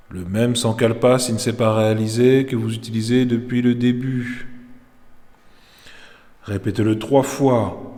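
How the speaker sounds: measured Yoga Nidra instruction with long pauses; calm meditation teacher's voice; guided meditation. Real, not acted. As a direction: guide them into rest, phrase by phrase. Leads Yoga Nidra session.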